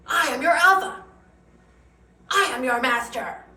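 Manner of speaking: playing the alpha guy for laughs; mock alpha male. Mocking the TikTok alpha guy.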